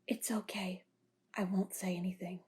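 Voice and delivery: soft hushed whisper. Acted. To Hayes, promising to keep the secret, whispered. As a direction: whisper it so nobody overhears.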